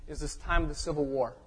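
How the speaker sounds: quiet, voice still catching; pushing words past tears; choked up. Real, not acted. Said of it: "And I'm choking".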